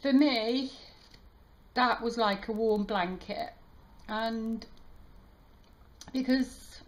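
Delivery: choked up, pitched high at first, with halting pauses; emotional, stopping to collect yourself between phrases; trying not to cry. Real, not acted. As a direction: hold back real tears as you speak. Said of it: "I'm gonna try not to cry".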